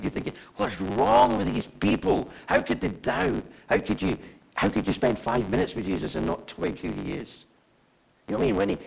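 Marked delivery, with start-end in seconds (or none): 0.6-7.4 baffled outburst at the doubters; incredulous. Acted. Preacher voicing his reaction to disciples who doubted Jesus, incredulous.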